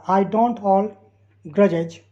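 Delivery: very slow, every word spelled out; slow dictation. Shown as a demonstration. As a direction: read it word by word for learners. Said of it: "teacher reads sentence slowly".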